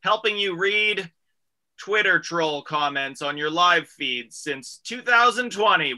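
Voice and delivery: slow sponsor plug; radio ad read. Acted. Host plugging the sponsor, ad read.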